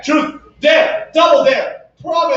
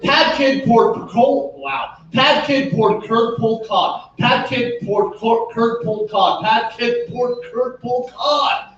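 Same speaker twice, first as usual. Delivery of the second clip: three times fast. Shown as a demonstration. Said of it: "say it three times fast".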